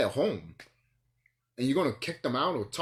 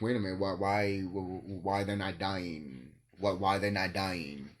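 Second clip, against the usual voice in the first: mock bafflement; 5 semitones lower, 4 dB quieter, slower than usual. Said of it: "they were like".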